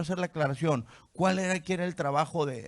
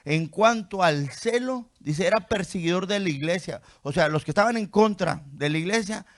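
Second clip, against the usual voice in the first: emphatic; 4 semitones higher, 6 dB louder than usual. Acted. Emphatic reading of Paul's zeal.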